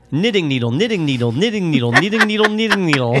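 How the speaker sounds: tongue twister attempt. Shown as a demonstration. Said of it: "I think I can do it".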